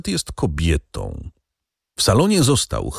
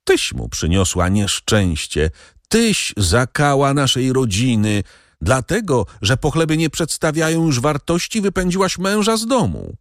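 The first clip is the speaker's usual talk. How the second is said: climbing higher into shrill accusation; mother-in-law accusing daughter-in-law, rising higher; spasmodic outcry; 7 semitones higher than usual. A narrator's reading. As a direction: scold her rising to a hysterical peak. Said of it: "spazmatycznych wykrzyków złej pani".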